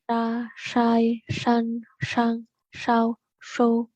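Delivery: "san, sang, sau" with the tongue curled back; retroflex sh. Shown as a demonstration. Teacher demos Mandarin sh. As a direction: hiss "shou" with tongue back. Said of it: "Huruf S H sama juga, dia agak ke belakang".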